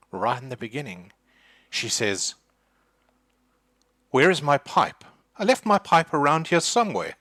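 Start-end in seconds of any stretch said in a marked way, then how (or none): 4.1-7.1 put-on louder, higher spitting old voice. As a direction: spit it out fussing over the pipe. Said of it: "literally in the spitting voice".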